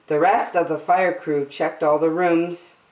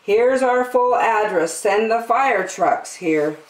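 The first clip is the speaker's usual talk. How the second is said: calm and clear; 5 semitones higher than usual. Acted. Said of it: "calm and clear".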